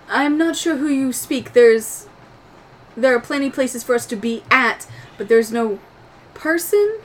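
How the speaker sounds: lightly voiced formal droid; Proto. Game master's droid answering about someone aboard, mildly formal.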